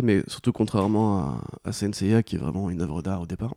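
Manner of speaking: slightly cracked, hoarse voice. Real, not acted. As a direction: talk through a worn-out, hoarse voice. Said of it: "j'ai une voix cassée".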